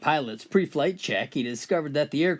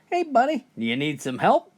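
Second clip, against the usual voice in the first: yelled call; 6 semitones higher than usual. Retold or imitated. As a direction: shout it out across the water. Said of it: "the captain yelled".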